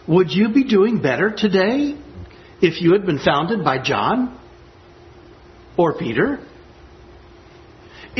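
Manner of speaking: sarcastic. Acted. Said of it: "A bit sarcastic there".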